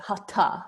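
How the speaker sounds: hatha with a breath after the T; aspirated sound. Shown as a demonstration. Teacher shows the aspirated sound in hatha, puffed T. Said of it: "aspirated sound".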